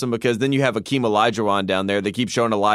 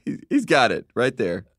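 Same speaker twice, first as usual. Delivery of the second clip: imitating Hubie Brown; 3 semitones higher than usual. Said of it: "He's like".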